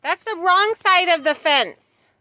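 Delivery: high, loud sing-song scolding; coo-scold a pet, slow. Real, not acted.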